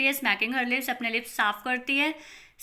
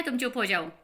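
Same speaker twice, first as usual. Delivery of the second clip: hissed whisper. Acted. Acted order to be quiet.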